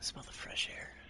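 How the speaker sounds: ASMR whisper. Pretend.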